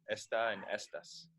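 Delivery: "Esta and estas" as ES-ta and ES-tas; stress on first syllable. Shown as a demonstration. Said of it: "without the accent".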